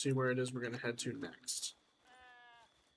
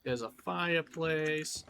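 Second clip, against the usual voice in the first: put-on slow, stretched Western accent; mild slow Western accent; Western accent showing. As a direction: let the Western accent slip in, slowly. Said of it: "Sorry, my accent was showing".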